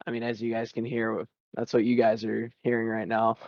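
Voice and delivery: muffled, like through a bad mic. Real, not acted. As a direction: sound a bit smothered, muffled mic. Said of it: "my voice sounds extra muffled".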